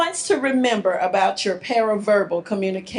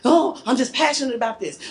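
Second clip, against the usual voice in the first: quick, mildly worked-up protest; excited; 2 semitones higher, faster than usual. Acted. Partner defends being passionate, mildly excited. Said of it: "when we are angry or excited".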